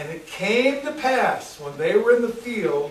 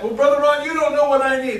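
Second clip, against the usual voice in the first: grumbling church member; 6 semitones higher, 5 dB louder, faster than usual. Retold or imitated. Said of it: "People don't like to hear that".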